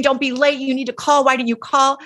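imitating a mom yelling at a late teen; mock angry mom yell. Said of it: "you are yelling at them, screaming".

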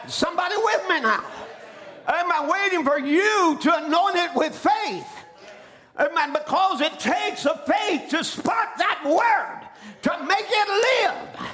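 rally the congregation, building to a high finish; fired-up preaching. Real, not acted. Preacher urging the congregation to anoint it with faith, fired-up preaching.

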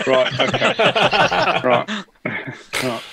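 laughing through the words; chuckling while speaking. Real, not acted. Group laughing at name mixup.

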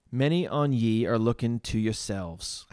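attempted broad Essex accent. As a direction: have a loose go at an Essex accent. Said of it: "in this broad Essex accent".

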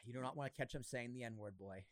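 soft, low-pitched aside; quiet aside. Real, not acted. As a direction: say it low, under your breath. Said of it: "What's that?".

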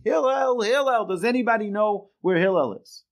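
high mock holler, name stretched out; imitated calling out. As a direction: call round for a missing person in a high voice. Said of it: "calls out again".

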